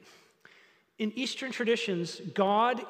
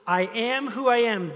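louder, higher, proclaiming; emphatic; 3 semitones higher, 5 dB louder than usual. Acted. Pastor rereads God's answer, louder and proclaiming. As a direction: announce it with force.

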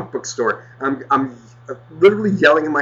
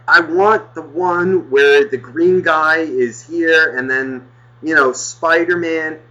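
slow, lightly voiced child; little kid; 3 semitones higher, slower than usual. Kid explaining to his mother, slow hint of child voice. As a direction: spell it out slowly like a kid. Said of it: "He's like".

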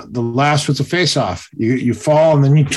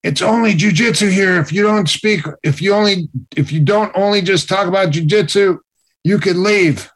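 stern instructor; 6 semitones higher than usual. Retold or imitated. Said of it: "he goes".

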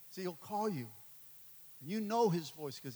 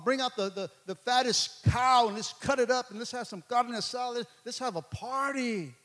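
rising, louder festive calls to celebrate; excited father calling for the feast; joyful father; 6 semitones higher, 9 dB louder than usual. Retold or imitated. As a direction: throw the party with a joyful shout. Father throwing prodigal party.

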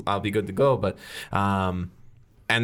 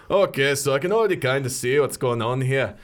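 Big Mike Irish voice; 2 semitones higher than usual. Acted. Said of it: "Big Mike ... goes".

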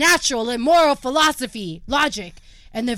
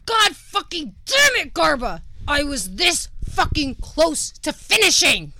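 angry; 4 semitones higher than usual. Acted. Furious at interruption.

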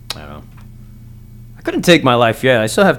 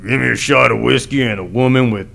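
lightly voiced tough guy ordering whiskey; a hint of a gruff bar tough; macho order. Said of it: "They're usually like".

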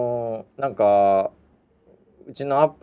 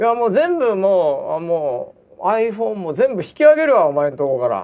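slow, higher, cold threat; angry threat; 6 semitones higher, 4 dB louder than usual. Retold or imitated. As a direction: coldly announce pulling out. (冷たく脅す声)

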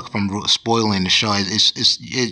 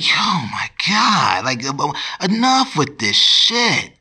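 exasperated whisper; 5 semitones higher, slower than usual. Retold or imitated. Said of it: "I'm just like".

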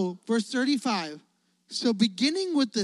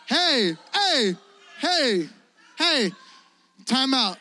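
loud, higher hey to stop the room; calling out; 4 semitones higher, 3 dB louder, much slower than usual. Acted. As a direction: call out to halt everyone. Preacher calls out to stop himself.

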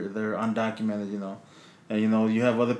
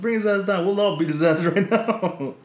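retold dare with laughter; 7 semitones higher than usual. Daring the lady back.

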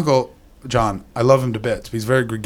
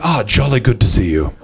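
posh English. Retold or imitated. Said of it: "he went".

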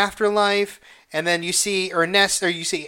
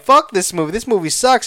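louder, worked-up mock complaint; overwhelmed, moved; 3 semitones higher, 4 dB louder, faster than usual. Viewer cursing the movie that made them cry, worked up. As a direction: curse it because it got to you. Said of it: "Now I'm like".

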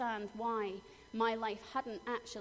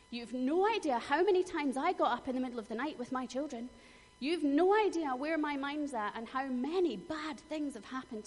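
louder, indignant retelling of a bitter inner rant; resentful outburst; 4 semitones higher, 6 dB louder than usual. Retold or imitated. Woman recalling her bitter thoughts toward her friend, louder indignant. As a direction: spit out the resentment, louder and higher. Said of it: "what I thought was".

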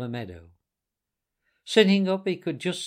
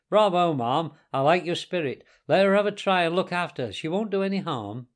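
lightly voiced hearty gentleman; a touch louder, cheering her on; approving gentleman; 4 semitones higher, 5 dB louder than usual. Gentleman backing the washerwoman's request to drive, heartily approving.

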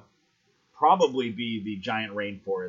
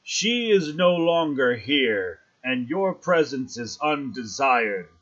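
guardian voice; 3 semitones higher, 4 dB louder than usual. Acted. Mushroom guardian answers party.

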